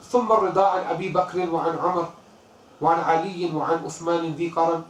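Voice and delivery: quick, rhythmic recitation of classical Arabic verse; Arabic verse recited fast; poem recitation. Acted. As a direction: recite the couplet in flowing chant. Recites added Burda lines.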